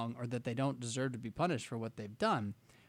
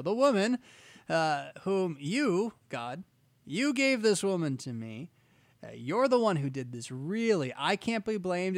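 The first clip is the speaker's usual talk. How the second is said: whiny Adam; 3 semitones higher, 4 dB louder than usual. Retold or imitated. Adam whining to God, blaming his wife, louder. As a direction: pass the buck like a sulky husband. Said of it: "So he says immediately".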